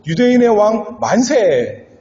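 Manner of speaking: mocking acclamation. Roman soldiers mocking Jesus as king, a mock acclamation. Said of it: "이렇게 외치는 것이었죠".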